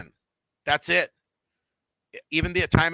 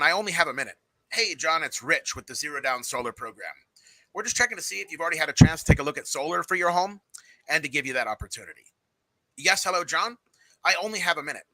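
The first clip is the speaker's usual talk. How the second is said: higher, brighter cold-call opener; second, more eager take on the script; better enthusiastic pitch; 4 semitones higher than usual. Shown as a demonstration. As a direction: sound like you mean it. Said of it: "So that was better".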